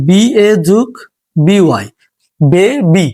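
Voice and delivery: বি এ যুগ বি ওয়াই said letter by letter, then বেবি as one word; spelling out letters. Shown as a demonstration. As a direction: spell it and join it. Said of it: "শব্দটা দ্বারা বে উচ্চারণ হচ্ছে".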